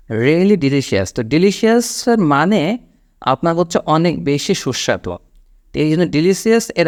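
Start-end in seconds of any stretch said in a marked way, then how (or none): 0.1-1.1 slow, spaced delivery; drawn-out wrong phrase; slow wrong example. Shown as a demonstration. Teacher quoting a common mistake, slowly. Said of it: "আমরা অনেকেই বলি".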